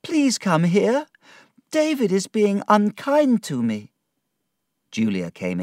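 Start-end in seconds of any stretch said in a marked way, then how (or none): 0.0-3.9 high, plaintive appeal for help; loud-ish, high tattling wail; upset calling out. Acted. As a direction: call out a complaint, pitched high. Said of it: "she shouted".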